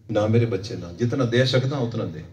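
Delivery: low, fatherly counsel; gentle fatherly advice. Acted. Preacher voices advice to a child about what to pay, gently.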